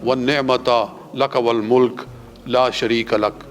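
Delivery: slow chanted Arabic prayer; slow recited talbiyah. Shown as a demonstration. Teacher demonstrating the talbiyah. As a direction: recite it slowly and clearly. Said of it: "تلبیہ کیا ہے؟".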